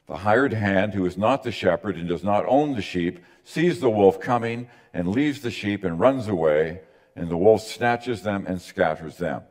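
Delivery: measured, formal reading of the verses; scripture reading. Acted. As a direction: read it out like the lesson. Reads the scripture passage aloud.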